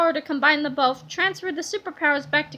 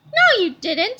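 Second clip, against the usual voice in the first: put-on kid voice; 5 semitones higher, 5 dB louder, slower than usual. A narrator's reading. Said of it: "said Harold".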